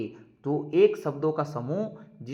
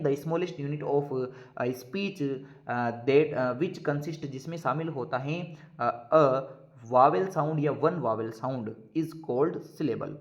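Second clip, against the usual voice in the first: very slow, word by word, for students to write down; slow dictation; much slower than usual. Shown as a demonstration. Teacher dictating a definition to students, slow and deliberate. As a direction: dictate it so the class can copy.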